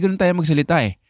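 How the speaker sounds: ordinary talk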